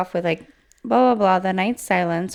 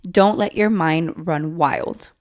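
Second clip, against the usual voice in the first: slow self-calming; 3 semitones lower, slower than usual. Retold or imitated. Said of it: "she says out loud".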